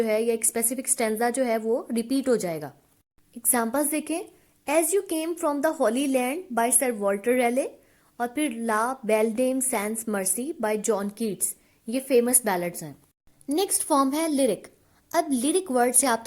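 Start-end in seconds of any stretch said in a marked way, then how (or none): 4.8-11.5 slow, even dictation pace; teacher dictating notes, word by word; dictation reading. Acted. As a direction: read the definition out slowly so students can write it down. Reads example titles slowly.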